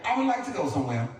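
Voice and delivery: Hassan. Acted. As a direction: make a very proper request. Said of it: "He said".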